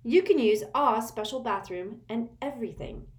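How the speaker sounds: eagerly delighted; happy. A narrator's reading. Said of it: "cried Hermione happily".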